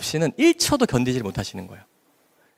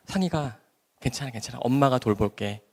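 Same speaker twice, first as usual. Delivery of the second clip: gentle soothing mother; 5 dB quieter than usual. Retold or imitated. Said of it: "세상 그렇게 다정할 수가 없어요".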